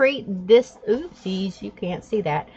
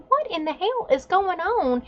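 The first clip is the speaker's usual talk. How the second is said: much higher, strained outburst; retold angry yell; 12 semitones higher than usual. Mother bursting out at teens with the hose, angry yell. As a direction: demand it like you just burst outside.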